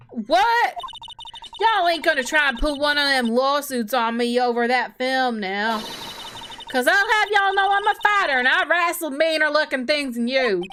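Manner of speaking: put-on Southern accent. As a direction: scold them in a Southern accent. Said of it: "Southern accent localization".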